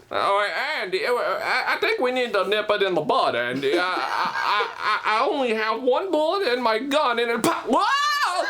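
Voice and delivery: nervous stammer rising to a yelp; a jumpy deputy who can't get the words out; hammed-up nervous deputy; Don Knotts. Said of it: "Don Knotts, Don Knotts".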